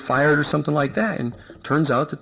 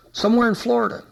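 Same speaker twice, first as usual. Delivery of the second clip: much higher, vague brush-off; evasive answer; 8 semitones higher than usual. Retold or imitated. Cop dodging investigator's question, high vague brush-off. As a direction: toss it off like you'd rather not say.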